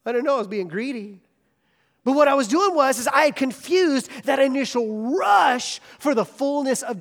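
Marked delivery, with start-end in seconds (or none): none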